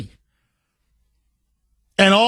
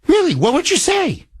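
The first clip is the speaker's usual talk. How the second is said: sharp high disbelieving "Really?"; incredulous; 9 semitones higher than usual. Real, not acted. Host to listeners, high incredulous question. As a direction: ask it like you can't believe it.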